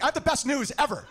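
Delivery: high, laughing eager voice; excited news. Retold or imitated. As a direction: blurt good news up high through laughs. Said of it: "I'm like".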